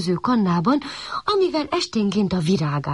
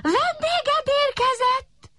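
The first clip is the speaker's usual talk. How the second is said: announcing; slower than usual. A narrator's reading. Puppy announces itself to sun.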